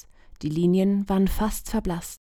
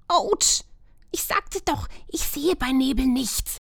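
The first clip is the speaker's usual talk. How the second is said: higher, admitting a little fear; sheepish girl; 6 semitones higher than usual. A narrator's reading. Lumina admitting she is a bit scared, higher. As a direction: own up with a nervous laugh.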